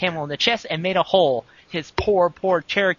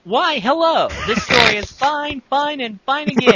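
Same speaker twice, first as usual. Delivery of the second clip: hammy excited reading; 8 semitones higher, 4 dB louder than usual. Acted. Hammy reading of troll fanfic.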